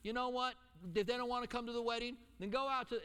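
a hint of God inviting everyone in; God calling out. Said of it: "But God was like".

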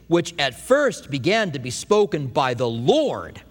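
slow, weighty reading landing on "Lord"; stress on Lord. Shown as a demonstration. Preacher pointing listeners to verse three's key word, stress on "Lord". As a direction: draw the phrase out slowly toward "Lord". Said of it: "That's the emphasis".

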